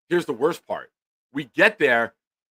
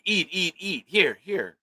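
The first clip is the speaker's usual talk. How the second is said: mildly higher, quick repeated urging; urging everyone to eat; 7 semitones higher, slower than usual. Retold or imitated. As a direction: imitate diners pushing food on someone. Everyone urging food at dinner.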